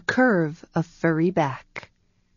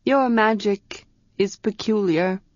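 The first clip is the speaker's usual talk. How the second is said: dignified; 3 semitones higher than usual. Acted. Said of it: "with a little dignity of equals".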